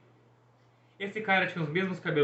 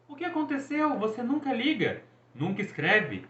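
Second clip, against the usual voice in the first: mock worried brother; 10 semitones higher than usual. A narrator's reading. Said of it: "Estava ficando preocupado".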